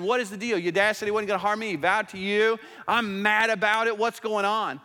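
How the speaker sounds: lightly acted frustrated demand for answers; mild frustration. David confronting Jonathan about his dad's broken vow, mildly frustrated. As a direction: press the complaint with a touch of exasperation. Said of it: "coming to Jonathan out of frustration".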